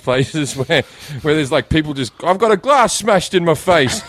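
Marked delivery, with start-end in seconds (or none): 2.2-4.0 lightly hammed-up cry of complaint; mock distressed yell. Injured clubber to makeshift triage staff, mock distressed yell. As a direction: imitate an injured clubber calling out.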